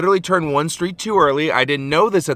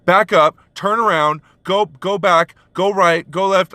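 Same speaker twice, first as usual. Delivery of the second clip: imitating a customer snapping directions; mock angry orders; 5 semitones higher, slower than usual. Angry customer on the phone, a mild mock bark. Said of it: "this guy who sounded super angry".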